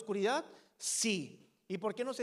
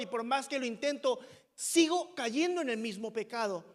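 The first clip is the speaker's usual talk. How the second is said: raised, pressing confession of failings; impassioned lament; 4 semitones higher, 4 dB louder than usual. Acted. Preacher voices a believer confessing failings, impassioned lament. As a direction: plead as a struggling sinner. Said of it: "clamado en forma de pregunta".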